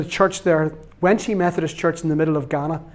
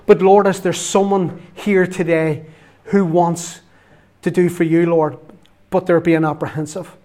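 earnest prayer in spaced phrases; public prayer; 3 dB louder than usual. Real, not acted. Preacher praying for hesitant listeners in church, public prayer. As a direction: address God firmly, pausing between phrases.

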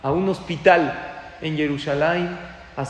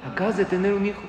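higher-pitched question at normal volume; surprised echo question; 4 semitones higher, faster than usual. Retold or imitated. Rabbi questioning the new father, retold surprise. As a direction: echo the news back in mild disbelief. Rabbi reacts to unexpected news.

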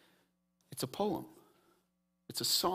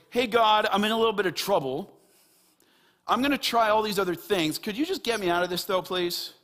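quick, higher, mock casual prayer; half-hearted plea; 5 semitones higher, faster than usual. Preacher mimics a half-hearted prayer to God, half-hearted. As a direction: toss off a token request for help. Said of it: "is not a half-hearted".

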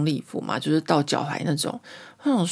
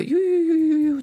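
ululation demo; 12 semitones higher than usual. Shown as a demonstration. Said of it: "一个声音".

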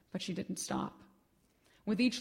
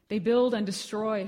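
louder, calling out to a passing car; shouting; 6 dB louder than usual. Acted. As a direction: call it out wildly into a car window. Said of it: "she shouted into the window".

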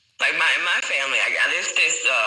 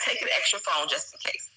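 hushed retold whisper; breathy whispered advice; 5 dB quieter than usual. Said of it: "So she was like".

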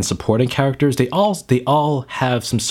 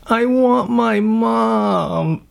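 very high, very slow, plaintive little pig; a lost piglet crying out for his mother; lonely piglet voice; much slower than usual. Retold or imitated. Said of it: "and he's like".

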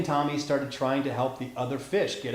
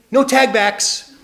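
loud, high, drawn-out taunt; slow high playground call; playful taunt; 7 semitones higher, 7 dB louder, slower than usual. A narrator's reading. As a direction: sing it out slowly like a kid winning tag. Playful tag game in story.

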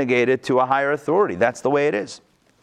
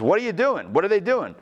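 higher, mock-exasperated asking; exasperated God; 6 semitones higher than usual. God reacting to the request for a king, mock exasperated. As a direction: throw up your hands at the people. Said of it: "God says".

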